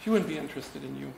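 ordinary talk

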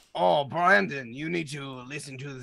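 fake, put-on French accent voice. Acting out a bit as a lobster, speaking in a french lobster accent. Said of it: "do it in a French lobster accent".

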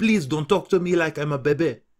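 put-on cat voice with a French accent. Voicing their black cat Louis, speak with a French accent. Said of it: "Our black cat Louis speaks with a french accent".

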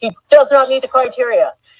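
yelling drill sergeant. Retelling a phone call, the speaker imitates the man yelling like an army sergeant. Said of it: "he's yelling this at me like an army sergeant".

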